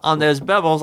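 put-on British accent. Co-host joining the accent bit, mock British. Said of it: "gonna do a British accent too".

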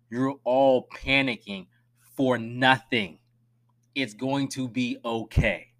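slow, calming reassurance to fans. Real, not acted. To panicking fans, slow and reassuring. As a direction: talk them down slowly. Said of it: "I promise".

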